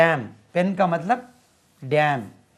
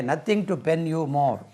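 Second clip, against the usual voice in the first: Nothing to pen you more said slowly with weight on Nothing; slow, nothing stressed; much slower than usual. Shown as a demonstration. Teacher reading the example phrase slowly. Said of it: "pen verb में इस्तेमाल होता है".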